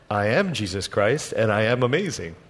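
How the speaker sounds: lightly voiced Jesus answering his disciples; calm Jesus reply. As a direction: answer calmly, unimpressed by their awe.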